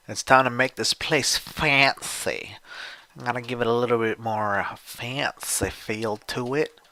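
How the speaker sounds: lightly hammed-up voice for a fancy makeover; put-on fancy voice. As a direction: draw it out in a playful put-on voice. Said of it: "I don't know why I'm talking like this".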